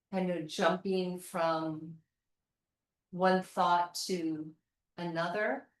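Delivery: unhurried, quiet yoga-teacher instruction; guided meditation. Real, not acted. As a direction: ease them gently into stillness, phrase by phrase. Leads seated body and breath check-in.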